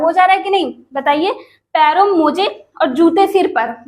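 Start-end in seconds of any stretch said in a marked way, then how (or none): 1.7-3.8 no break between "जूते" and "सिर पर"; misplaced pause. Shown as a demonstration. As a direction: run "जूते सिर पर" together as one phrase. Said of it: "बताइए जूते सिर पर लेकर आया". (गलत विराम, "जूते सिर पर" एक साथ)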